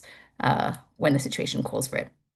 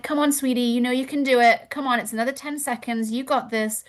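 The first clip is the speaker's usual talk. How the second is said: higher, coaxing mother voice; nurturing mother; 6 semitones higher than usual. Retold or imitated. Instructor mothering a struggling student through the wall sit. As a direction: encourage gently like a mom. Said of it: "That's a little bit more mothering archetype".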